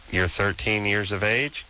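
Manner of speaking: "thirteen years of age" spelled out slowly; slow clarifying repeat. Real, not acted. Host to young caller who said what, slow clarifying repeat.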